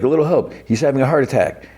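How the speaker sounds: high, alarmed call for help; mock urgent plea. Kentaro calling to the bar crowd, mock alarmed. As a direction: fake panic pitched high. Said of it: "And Kentaro's like".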